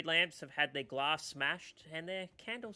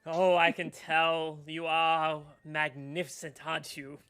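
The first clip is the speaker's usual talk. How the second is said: fawning gnome; 9 dB louder than usual. Acted. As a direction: gush and swoon over the purple. Gnome gushes over dragonborn.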